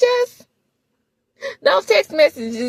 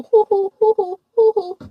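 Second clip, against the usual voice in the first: high hooting; 7 semitones higher than usual. Acted. Mocking hoot for his name.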